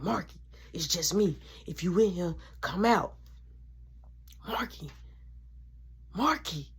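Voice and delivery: soft, low coaxing call; hushed calling. Retold or imitated. Kid softly calling brother out of hiding. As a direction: coax him out quietly.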